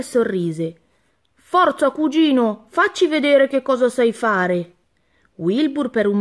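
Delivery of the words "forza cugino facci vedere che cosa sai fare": a hint of a coach's pep; encouraging Elmer. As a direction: urge your cousin on. Elmer cheers his cousin on.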